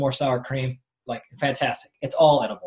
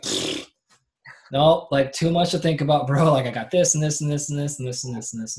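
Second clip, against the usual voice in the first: dismissive brush-off; 4 dB louder than usual. Retold or imitated. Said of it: "she would be like".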